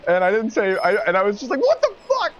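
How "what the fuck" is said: sharp high yell of outrage; knee-jerk yell at the second pump thief. Retold or imitated. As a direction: shout it out in sudden disbelief. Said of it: "I totally yelled".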